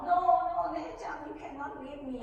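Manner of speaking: high, loud imitation of a child's tantrum; hammed-up tearful begging, high-pitched; crying little boy. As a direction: plead like a wailing small child. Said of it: "Lai Chang cry, throw himself on the floor".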